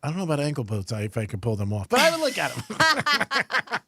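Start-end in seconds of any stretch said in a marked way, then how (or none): 1.9-3.8 slow motion. Acted. Drawn-out joking line about ankle boots.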